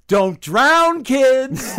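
high, drawn-out motherly yell; June Cleaver. Retold or imitated. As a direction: call out to the kids at full voice, far up in pitch. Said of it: "just like June Cleaver yell".

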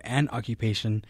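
ordinary delivery

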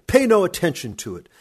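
roaring. A narrator's reading. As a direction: blast it out to end the argument. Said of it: "my Uncle Khosrov roared".

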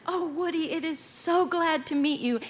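put-on high, gushing star voice for the boy; imitating Elizabeth. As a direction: coo it like a glamorous star. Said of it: "bent down and said".

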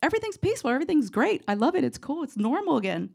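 high, bouncy, carefree lilt; mock cheerful all-is-well; sing-song relief. Relieved sing-song after haunting.

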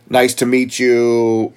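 drawn-out polite greeting, imitated; mock pleasantry. Contrasting the engineer's opening insult with manners, mock pleasantry. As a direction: stretch out a mock nice-to-meet-you.

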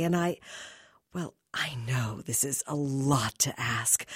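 coaxing, breathy pleas trailing to whispers; soft pleading. Acted. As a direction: wheedle like a seductress begging. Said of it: "soft, pleading voice".

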